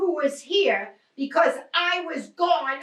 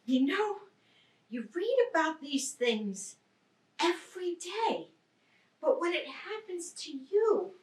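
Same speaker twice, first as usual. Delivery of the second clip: softer, reflective murmur; quiet; 7 dB quieter than usual. Acted. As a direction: let it sink in quietly. Stunned reflection after robbery.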